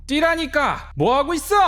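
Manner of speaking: high, urgent yell; shouted order. A narrator's reading. Shaman grandmother yelling at the girl to dance, high shout. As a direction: bark the order at her. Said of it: "하고 소리치니".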